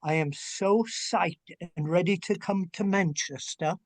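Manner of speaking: joking attempt at a British accent; hammy amateur British accent; bad British accent. Shown as a demonstration. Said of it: "my bad British accent".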